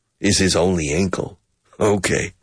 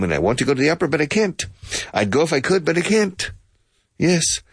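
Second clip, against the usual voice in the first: much higher, plaintive complaint; hammed-up self-pity; mock whiny; 8 semitones higher, faster than usual. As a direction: whine it like a hard-done-by friend. Acted lament about the opera.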